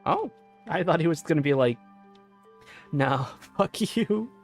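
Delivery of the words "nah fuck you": usual speaking voice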